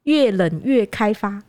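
put-on 越冷越开发 with 花 said as fa, Hakka accent, slow; slow Hakka accent, 花 turned into fa. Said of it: "他都念发".

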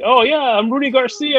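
high, lightly imitated Latino accent; Rudy's Latino accent. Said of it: "a Latino accent and black accent".

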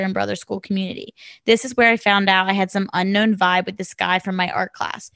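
reading a listener's story aloud; steady read of the letter. Acted. Host reads the listener's letter to co-hosts, steady reading.

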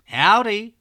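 loud, high Texan cowboy howdy; American howdy. Retold or imitated. Narrator greets kids in a loud American cowboy accent. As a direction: boom it out like a cheery American cowboy. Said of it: "In American".

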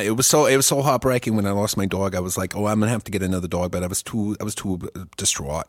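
mock-heartbroken New York dog owner; put-on New York accent. Grieving a lost dog in jest, put-on New York accent. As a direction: lament lightly in comic New York tones. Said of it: "to actually do this accent right".

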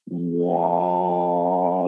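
low droning "wah" imitating a vibration; imitated vibration. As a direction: hum it like a deep vibration sucking you in. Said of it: "like, this vibration".

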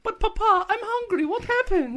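put-on high, loud whiny child pleading to Papa; hungry child. Child begging Papa for food at dinner. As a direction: beg like a starving kid.

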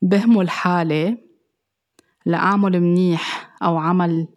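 spaced out phrase by phrase, with clear pauses; measured restatement, pausing between phrases. Shown as a demonstration. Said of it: "رح أرجع أعيدها".

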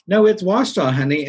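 sweet Southern lady. Retold or imitated. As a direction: draw her in gently, like a Southern aunt. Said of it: "she said".

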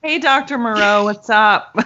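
mock greeting. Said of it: "I was just gonna say".

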